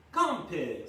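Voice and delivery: friendly farmer's call. A narrator's reading. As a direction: coax the pig over. Farmer calls the pig.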